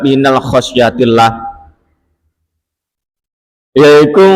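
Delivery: lightly intoned scripture reading; kitab recitation. Acted. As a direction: recite the text, then translate it phrase by phrase. Reads kitab text and translation.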